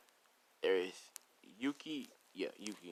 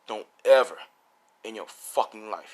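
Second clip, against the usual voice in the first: hard, loud hit on "ever", then dropping back; threaten, punching out "Don't ever"; serious threat; 5 dB louder than usual. Acted. Swordsman warning All Might off the blade, forceful threat. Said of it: "He says it like that".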